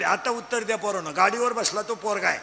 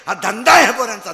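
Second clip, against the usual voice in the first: loud preaching; 9 dB louder than usual. Acted. Preacher denouncing boys' racket.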